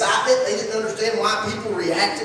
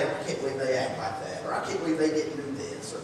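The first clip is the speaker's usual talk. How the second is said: mocking critics; 4 semitones lower, 4 dB quieter than usual. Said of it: "mock moments".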